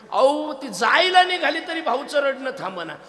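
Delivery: laughing out loud. Real, not acted. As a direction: crack up while telling it. Laughing climax of comic story. (हसत हसत, खूप मोठ्या आवाजात)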